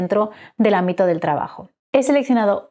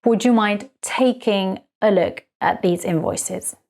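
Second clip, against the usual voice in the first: slow, careful example read; slow model sentence; slower than usual. Shown as a demonstration. Teacher showing the verb form to learners, slow. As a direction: lay the sentence out word by word. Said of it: "is followed by the verb in the I N G form".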